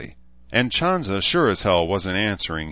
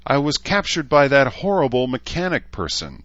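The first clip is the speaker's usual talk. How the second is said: high, loud wail from a unicorn; high-voiced tearful complaint, acted; crying out, unicorn; 8 semitones higher, 5 dB louder than usual. A narrator's reading. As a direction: cry it out in a distressed squeak. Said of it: "the unicorn cried".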